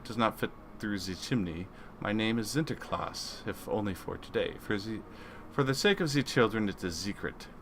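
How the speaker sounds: lightly attempted foreign accent; a half-hearted, badly faked accent; Wolfbane. Doc mimicking a crewmate for the children's sake, clumsy accent. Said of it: "puts on his best Wolfbane's accent".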